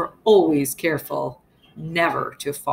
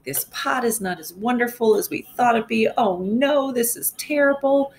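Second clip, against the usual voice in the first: higher, more exasperated mock complaint; angry yelling; 5 semitones higher than usual. Shown as a demonstration. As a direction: show the class how he yells it, rising. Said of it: "he's just yelling".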